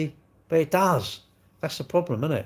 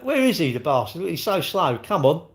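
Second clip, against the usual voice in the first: mock impatience; 5 semitones higher than usual. Impatient about the winner.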